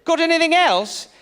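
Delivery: put-on high, eager British accent; British gentleman. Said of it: "two old dusty white dudes".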